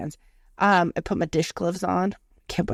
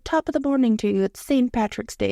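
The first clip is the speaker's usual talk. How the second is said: Irish assistant voice; 4 semitones higher than usual. Retold or imitated. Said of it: "She's like".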